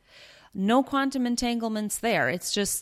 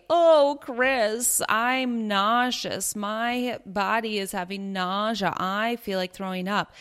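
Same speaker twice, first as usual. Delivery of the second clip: mock dramatic complaint; 3 semitones higher than usual. Wife mock-whining her nausea to husband Chris, hammed-up. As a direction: ham up the woe to the husband. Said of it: "I wouldn't say".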